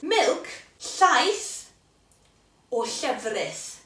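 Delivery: llaeth and llefrith said slowly with Welsh ll; Welsh word options. Shown as a demonstration. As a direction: voice the ll in llaeth clearly. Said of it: "You decide which one you wanna try".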